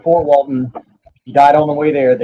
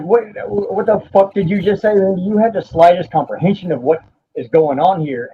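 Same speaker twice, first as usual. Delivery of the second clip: higher-pitched, incredulous challenge; retold disbelieving outrage; 5 semitones higher than usual. Brother confronting sister's fiance as she lies dying, retold outrage. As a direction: demand an answer in disbelief, without shouting.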